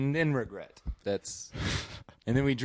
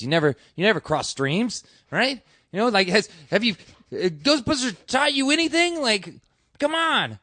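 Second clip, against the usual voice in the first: incredulous rant; 11 semitones higher, 9 dB louder than usual. Retold or imitated. Retold rant at a squadmate.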